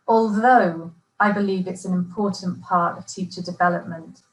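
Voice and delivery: key linking words stressed clearly; exam answer with emphasis. Shown as a demonstration. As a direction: lean on the words that connect the ideas. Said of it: "I'm going to emphasize the words".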